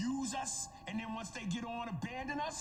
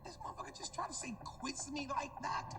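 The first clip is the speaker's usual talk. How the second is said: higher, incredulous question; acting out his own bafflement; baffled retelling; 5 semitones higher than usual. Listener finally decoding the mumble, baffled. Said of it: "Took me three times to hear him and go".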